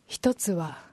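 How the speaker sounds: 少し低めに抑えた艶っぽい声; ためて色っぽく言い出す; セクシーな一言. Pretend. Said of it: "ちょっとセクシーな". (低めのセクシーな女優口調)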